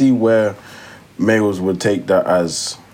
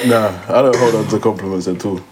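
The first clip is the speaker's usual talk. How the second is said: after laughing hard; 2 semitones higher than usual. Real, not acted. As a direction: still catching breath from laughing. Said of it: "I need to compose myself before I start laughing again".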